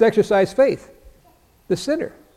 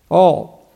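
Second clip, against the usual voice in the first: All. alone, weighed out; stress on all; 4 dB louder than usual. Shown as a demonstration. Preacher dwelling on the word All. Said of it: "notice the first word is all".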